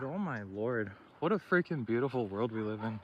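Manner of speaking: winded from the climb; puffing between words uphill; out of breath. Real, not acted. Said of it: "Sorry, I'm out of breath".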